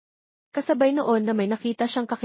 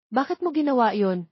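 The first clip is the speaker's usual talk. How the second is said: angry question; 4 semitones higher than usual. Acted. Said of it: "galit na tanong ni Lina".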